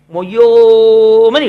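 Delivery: loud drawn-out mock wail of a crying child; a sustained loud imitation of a child's bawling; imitated child's wail. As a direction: wail like a small boy who can't explain. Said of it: "మొయ్యోమని ఏడుస్తాడు".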